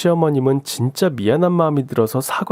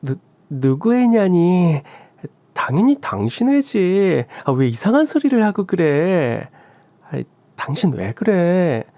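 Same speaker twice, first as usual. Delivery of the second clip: higher, stammering protest, half pleading; flustered young wife; 6 semitones higher than usual. Acted. Sister-in-law stammering a denial to her husband, higher and pleading. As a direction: deny it, stumbling then begging for help.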